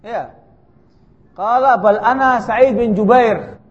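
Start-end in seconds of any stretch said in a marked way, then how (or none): 1.3-3.6 slow, louder Arabic retort; proud loud reply. Retold or imitated. Sa'id correcting Hajjaj's insult, slow and loud. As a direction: say your own name back with pride.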